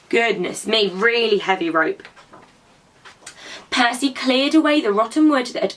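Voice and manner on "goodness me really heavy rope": mock strain. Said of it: "it's gonna be really heavy".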